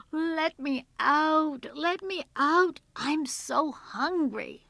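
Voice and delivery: loud, high, stretched-out pleading; trapped girl calling out slowly; desperate cry. A narrator's reading. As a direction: wail to be let out. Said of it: "she cried".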